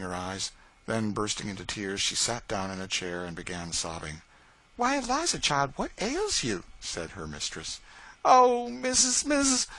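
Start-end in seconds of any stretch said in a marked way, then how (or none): 4.8-6.6 mistress's voice. Acted. Mistress questions upset servant. 8.2-9.7 much higher and louder, slow, tearful; pleading Eliza. Acted.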